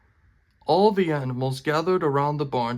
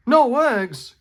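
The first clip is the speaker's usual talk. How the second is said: high, loud shocked question; cried out; 10 semitones higher, 6 dB louder than usual. Acted. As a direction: cry out in disbelief. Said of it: "cried Farmer Brown".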